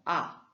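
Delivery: "A" sharply falling, fourth tone. Shown as a demonstration. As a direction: drop "A" down hard. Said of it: "c'est un ton descendant".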